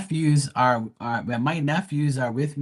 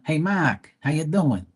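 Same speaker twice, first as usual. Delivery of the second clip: higher-pitched Boston greeting; Boston accent; 6 semitones higher than usual. Retold or imitated. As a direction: imitate a Boston friend saying hello. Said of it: "They talk all that Bostonian".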